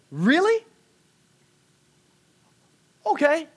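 a thrilled yelp held in check; excited disbelief. Retold or imitated. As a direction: try not to freak out and fail. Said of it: "I'm trying not to freak out".

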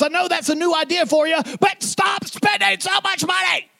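high shouted command; grandfather screaming. Retold or imitated. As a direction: scold at full voice. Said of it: "your granddaddy screamed at you".

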